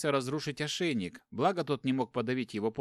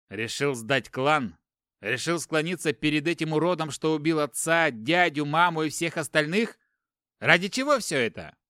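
louder, rising furious accusation; angry outburst; 4 semitones higher, 6 dB louder than usual. Acted. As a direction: hurl the betrayal at him, louder. Brother rages over betrayal. (гневный упрёк брату, громче)

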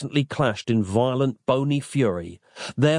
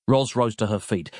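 plain reading voice

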